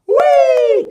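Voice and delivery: high, loud whooping cry; gleeful whee. Acted. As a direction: throw yourself off with joy. Kids dive-bombing onto the floor.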